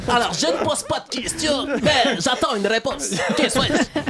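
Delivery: lightly voiced Père Fouras riddle through laughter; a hint of the old riddle master, half laughing; Père Fouras impression. Host mimics Père Fouras reading the riddle, lightly. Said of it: "je vais vous la faire à la Père Fouras".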